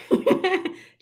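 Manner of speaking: laughing mid-sentence. Real, not acted. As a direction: break into laughter. Laughs at own point.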